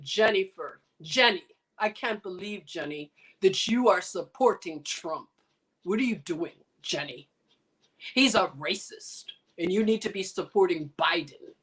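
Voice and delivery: low-pitched imitation with a Spanish accent. Cuban friend chiding her over Trump, Spanish accent. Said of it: "my Spanish accent".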